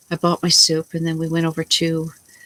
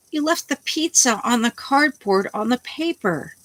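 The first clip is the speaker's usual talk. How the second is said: retold fury; 11 semitones higher than usual. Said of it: "Well, I just lost it".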